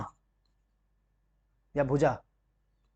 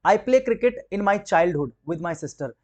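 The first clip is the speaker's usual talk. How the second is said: slow reading; much slower than usual. Shown as a demonstration. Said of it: "reading the question".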